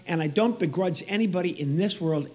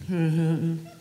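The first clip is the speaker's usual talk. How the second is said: imitated grunt; slower than usual. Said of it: "She says it again".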